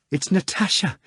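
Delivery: first high rising call of Natasha; exclaiming. A narrator's reading. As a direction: call out her name in delight. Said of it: "Margarita exclaimed".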